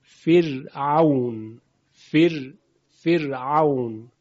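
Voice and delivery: "فرعون" with a thin, delicate R; light tarqiq R. Shown as a demonstration. Teacher gives an example of tarqiq, a slow, delicate R. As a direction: draw out "فرعون", keeping the R fine and light. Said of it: "ترقیق یعنی این که حرف با صدای ظریف ادا بشه".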